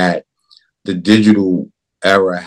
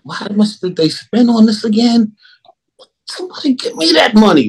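high, exasperated mock complaint; complaining viewer; 12 semitones higher than usual. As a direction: whine about the wasted money. Mocking viewer complaint, high pitch.

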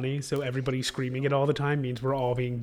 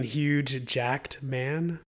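slow pun; much slower than usual. Real, not acted. Punning on Hugh Jackman.

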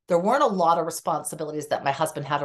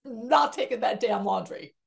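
higher, stubborn mock refusal; defiant refusal; 5 semitones higher than usual. Widow refusing kids' pleas about laundry, defiant and higher. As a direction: dig in your heels, defiant. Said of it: "I'm like".

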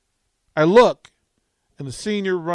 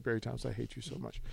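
muttered grudge; 6 semitones lower, 18 dB quieter, faster than usual. Retold or imitated. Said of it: "I'm just like".

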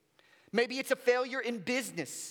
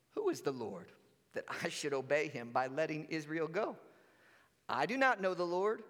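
low, softer scoffing king; dismissive Pharaoh; 6 semitones lower, 4 dB quieter than usual. Acted. Preacher voicing Pharaoh brushing off Moses, low and scornful. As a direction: sneer it down from the throne.

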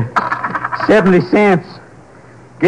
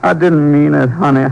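tender apology; slower than usual. Acted. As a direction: ease off and say sorry gently. Husband apologizes after outburst.

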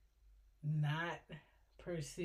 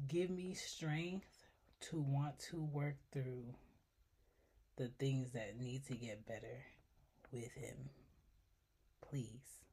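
praying for patience through teeth; 4 semitones lower, 8 dB quieter than usual. Real, not acted. Quiet prayer for strength.

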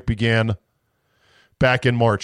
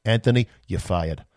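Trump firing line; 4 semitones lower than usual. Retold or imitated. Host imagining Trump firing Fauci, in a low mock-Trump voice. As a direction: deliver the dismissal like a TV boss. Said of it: "he better say it in that same kind of voice".

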